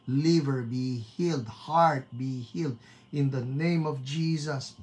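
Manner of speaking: measured, declarative prayer cadence; healing prayer. Real, not acted. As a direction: command each healing firmly in prayer. Prays healing over listeners. (mataimtim na panalangin ng pagpapagaling)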